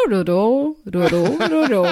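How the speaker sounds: mock Japanese gibberish, unruffled translator; super calm. Roberto translating her rant for the manager, super calm. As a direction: imitate someone translating placidly in nonsense syllables. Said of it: "assim, super calmo".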